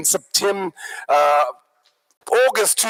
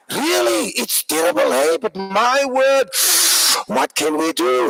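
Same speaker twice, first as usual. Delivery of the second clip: complaining; 3 semitones higher, slower than usual. Acted. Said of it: "So you can complain".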